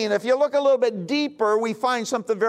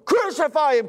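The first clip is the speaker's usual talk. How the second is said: crowd crying out; 5 semitones higher than usual. Acted. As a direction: call it out like the angry crowd.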